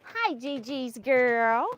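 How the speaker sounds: slow cooing hello to a grandchild. Real, not acted. Greeting grandchild, slow sing-song.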